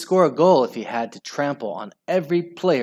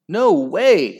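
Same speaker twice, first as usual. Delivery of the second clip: high, loud denial; scream; 6 semitones higher, 7 dB louder than usual. A narrator's reading. Al denying a handball, screaming. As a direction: yell the denial. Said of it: "screamed Aerobic Al".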